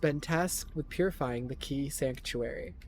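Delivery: measured, emphatic intro read-aloud; story narration. A narrator's reading. Streamer reading the game's backstory aloud, dramatic narration. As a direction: narrate the tale like a game prologue.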